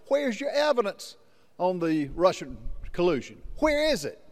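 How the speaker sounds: demanding questioning. Retold or imitated. Acting out questioners challenging Schiff.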